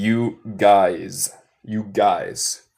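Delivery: "you guys" drawn out slowly; very slow casual "you guys"; slow American "you guys". Shown as a demonstration. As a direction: stretch "you guys" out for learners. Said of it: "This is very American".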